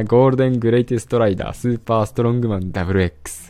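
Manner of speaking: all in one breath. Shown as a demonstration. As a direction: rattle off the hero name fast, no breath. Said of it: "一息で読めること。".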